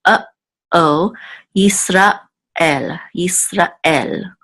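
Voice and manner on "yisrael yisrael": Yisrael with a break between Ra and El; Yisrael with a pause. Shown as a demonstration. Teacher repeating for students, paused before El. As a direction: stop briefly after Ra in Yisrael. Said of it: "if you heard the pause".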